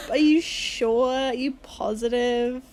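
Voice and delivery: slow, drawn-out doubting questions; mock scepticism. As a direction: draw it out as if unconvinced. Playing a sceptic doubting her origins.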